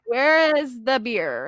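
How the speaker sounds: slow, lightly acted drunk demand; intoxicated. Drunk woman asking the zombie for alcohol, slow and tipsy. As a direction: drag the words out like a tipsy customer. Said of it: "I'm very intoxicated".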